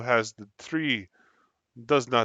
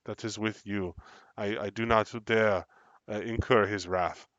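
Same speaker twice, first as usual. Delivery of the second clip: wary NPC leader; 5 dB louder than usual. Acted.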